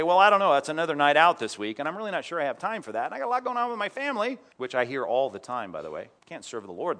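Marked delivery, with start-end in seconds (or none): 0.0-4.4 mock excuse. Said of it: "And Isaiah didn't say".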